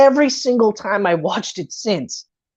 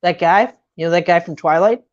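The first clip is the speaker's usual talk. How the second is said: put-on bragging drunk guy; 5 semitones lower than usual.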